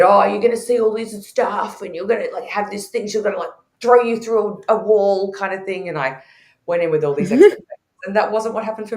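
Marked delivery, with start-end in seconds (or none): 0.0-5.3 high, loud, breathless retelling of the big promises; lightly mocking the people who oversold it; hyped-up promise. Speaker mocks what others promised about ayahuasca, high and loud. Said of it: "they'd said". 6.7-7.7 laughing at herself. Real, not acted. Laughs at her own naivety.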